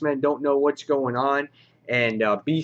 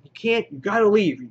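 much higher, insistent, pushing them out; imitating a pushy heroine barking orders; mock-forceful warning, pitched up high; 9 semitones higher, 4 dB louder than usual. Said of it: "She's so forceful".

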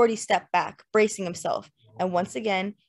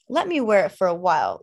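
cajoling; 4 dB louder than usual. Acted. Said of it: "Lynette cajoled".

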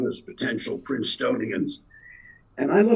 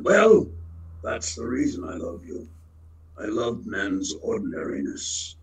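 God's reply, quieter; 3 semitones lower than usual. Retold or imitated. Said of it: "he says".

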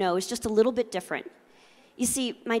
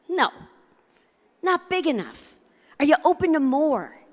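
dad's reply; 5 semitones higher than usual. Retold or imitated. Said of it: "And my dad said".

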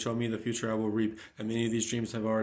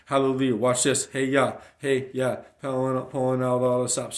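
loud, roaring declamation with big falling shouts; preaching at full force, shouting; shouted proclamation; 8 dB louder, slower than usual. Acted. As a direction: roar each line out like a battle cry.

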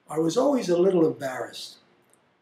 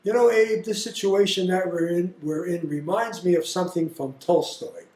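higher, louder, lofty lecturing tone; pompous father-in-law; 5 semitones higher, 5 dB louder than usual. Retold or imitated. Jack lecturing the narrator's father about Tolstoy, high and pompous. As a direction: play the show-off host talking down. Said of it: "and then Jack began to say".

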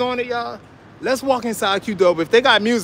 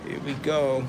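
whispered restaurant name; hushed stage whisper as he walks in; 6 semitones lower, 10 dB quieter than usual. Real, not acted. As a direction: breathe the name as a secret.

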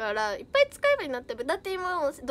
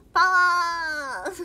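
long, loud, higher cry of the word; playful power shout; 4 semitones higher, 9 dB louder, much slower than usual. Pretend. Streamer answering a question about muscles, playful drawn-out shout. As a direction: stretch it out in a mock-heroic yell.

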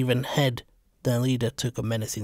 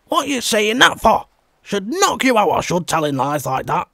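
higher and louder, threatening the liar; furious threat; 7 semitones higher, 6 dB louder than usual. Acted. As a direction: square up and threaten him. Hob rounds on his accuser.

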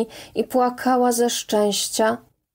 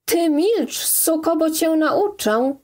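higher, furious threatening shout; menacing raised-voice threat; furious yell; 7 semitones higher than usual. Acted. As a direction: bark the threat at her to shut her up. Forester threatens the woman.

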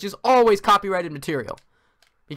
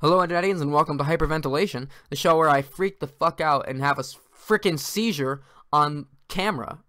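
mock show host intro.

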